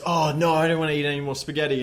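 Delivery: fast whiny complaint; whiny Pete. Retold or imitated. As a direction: rush the complaint out. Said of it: "Pete goes".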